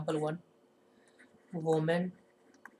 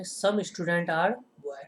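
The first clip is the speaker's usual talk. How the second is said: very slow, word by word, for note-taking; dictating at a crawl; slow dictation; much slower than usual. Shown as a demonstration. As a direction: spell it out slowly so the class can write it down. Teacher dictating an example sentence.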